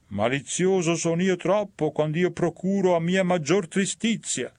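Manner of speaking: a touch of mock self-blame; sly sinner.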